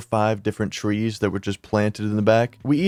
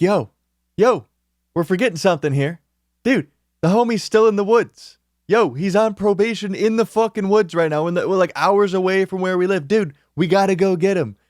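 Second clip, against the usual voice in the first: higher-pitched, pressing plea to friends; retold urgent alarm; 8 semitones higher than usual. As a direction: act out suddenly remembering a friend is in trouble, pitch jumping up. Urging friends to rescue homie.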